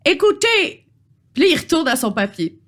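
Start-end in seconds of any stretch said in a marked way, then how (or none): 0.0-0.9 put-on high British-accented troll interjection. Troll returns to his rules, high British accent. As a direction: pitch it high in mock British-accented French. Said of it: "charmant accent britannique".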